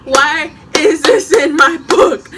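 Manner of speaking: calling friend about the petition; loud demand. Retold or imitated. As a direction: confront her friend. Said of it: "I'm like".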